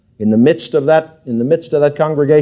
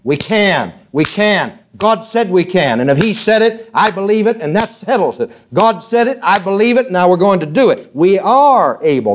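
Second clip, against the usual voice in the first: voice of faith; 3 semitones higher than usual. Acted. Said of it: "here comes that voice of faith".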